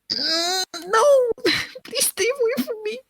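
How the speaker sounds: retelling how she turned him down; mock prissy refusal. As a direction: push him away in a high, dainty voice. Retold refusal, high put-on.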